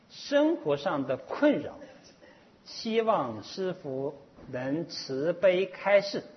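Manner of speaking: slow, measured read-aloud; formal slow recital with spaced phrases; reading a written question. Acted.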